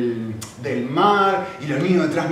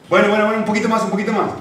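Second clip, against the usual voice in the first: coaxing; 5 semitones higher, 5 dB louder, faster than usual. Retold or imitated. Father coaxing his tired son.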